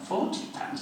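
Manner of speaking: high-pitched incredulous question; retold disbelief. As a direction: balk at the price in mock astonishment. Retold disbelief at the band's fee.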